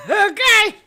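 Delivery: high laughing okay. Real, not acted. To viewers, laughing high okay.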